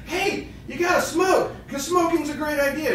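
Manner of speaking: loud, very high mock-child urging; ten-year-old kid imitation. Therapist voices the smoker's inner ten-year-old, pushy kid voice. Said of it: "there's a ten-year-old inside you saying".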